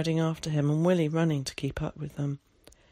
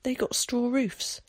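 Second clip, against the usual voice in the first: put-on high child's voice, drawn out slowly; little boy gasping out a discovery; high and slow, short of breath; 7 semitones higher than usual. A narrator's reading. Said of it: "he gasped".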